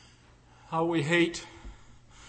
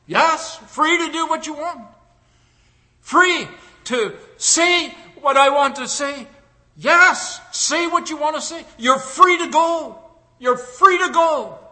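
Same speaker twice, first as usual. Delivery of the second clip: Lincoln; 9 semitones higher, 8 dB louder than usual. Acted. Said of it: "Lincoln reassures the freed woman".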